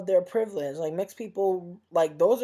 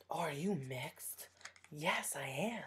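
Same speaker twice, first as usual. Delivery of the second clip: much softer, mock-coy exchange; coy imitation; 12 dB quieter than usual. Imitating mixed people pleased to be asked, coy.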